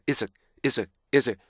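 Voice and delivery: IS IT as IS closed by a K-like stop; stop after IS. Shown as a demonstration. Teacher drilling students, IS ending in a short stop. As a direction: cut IS off short in the throat. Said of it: "스탑 사운드가 K예요".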